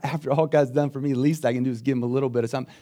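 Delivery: quick, offhand self-satisfied quote; wrong attitude quote. Retold or imitated. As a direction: toss it off like a debt repaid. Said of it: "It's not".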